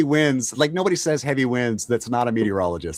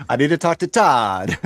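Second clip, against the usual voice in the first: laughing; 3 semitones higher, 3 dB louder, slower than usual. Retold or imitated. Repeating the line laughing.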